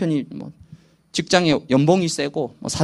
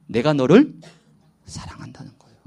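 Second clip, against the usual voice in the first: hushed, breathy whisper at the end; whispered love; 6 semitones lower than usual. Acted. Preacher explaining Jesus' love to church, whispered. Tender meaning of Jesus' words.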